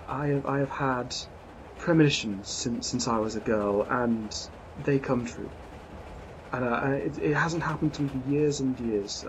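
a hint of a flustered, apologetic lady; lady barely shifted from the narrator's voice, apologising; lightly voiced lady passenger. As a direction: play the refined traveller, shaken and sorry.

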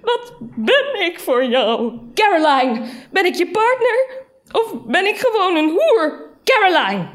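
loud, high-pitched tearful outburst; sobbing. A narrator's reading. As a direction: wail it at your lover, hammed-up. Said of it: "Ze begon te snikken".

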